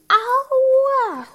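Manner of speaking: sudden high yelp of pain. Real, not acted. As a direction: yelp as the nail pulls. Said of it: "one of my nails are not coming off".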